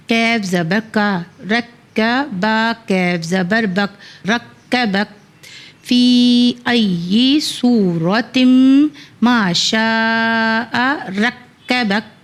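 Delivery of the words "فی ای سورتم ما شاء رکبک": slow, chanted verse recitation; slow Quranic chant. Shown as a demonstration. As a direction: recite the verse slowly and melodically. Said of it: "اس طرح سے ہم نے ایٹ والی آیت کو پڑھا".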